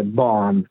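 بارن said "baan", R dropped; non-rhotic barn, no R sound; silent R. Shown as a demonstration. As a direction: say بارن with a long A straight into N.

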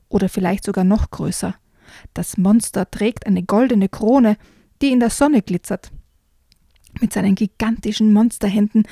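put-on lively read-aloud for children; storyteller reading a frog tale aloud; story reading. A narrator's reading. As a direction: read it like a bedtime book.

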